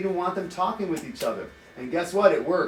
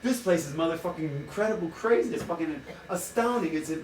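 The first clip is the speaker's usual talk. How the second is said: gushing inner voice; 3 semitones higher than usual. Retold or imitated. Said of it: "And I'm thinking".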